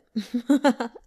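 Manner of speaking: a short, easy amused laugh; emperor's laugh. A narrator's reading. Emperor laughing off the princess's complaint, amused laugh. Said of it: "The Emperor of Sui had laughed and said".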